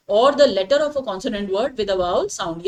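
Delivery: very slow, every word set apart; slow dictation. Shown as a demonstration. Teacher dictates the grammar rule to students, very slowly. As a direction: dictate it so students can write it down.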